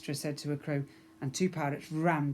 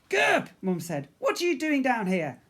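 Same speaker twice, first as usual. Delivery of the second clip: mum calling; 9 semitones higher, 7 dB louder than usual. Acted. Mum to Gerp.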